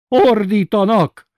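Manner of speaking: slow, high, loud hoarse cry. A narrator's reading. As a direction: rasp it out slowly, shaken. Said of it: "mondta Sanyó bácsi rekedten".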